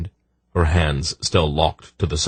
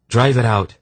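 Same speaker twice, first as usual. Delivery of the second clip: urgent plea, pitched higher; pleading; 7 semitones higher, 4 dB louder than usual. Acted. Husband begs for his wife's mind to be freed, pleading. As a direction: plead for it to be done. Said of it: "he pleaded".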